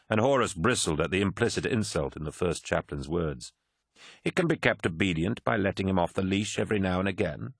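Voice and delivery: smooth, mildly smug chaplain; calm Erebus. Acted. Erebus puts in advice on controlling Angron, calm. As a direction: reason it out with composed assurance.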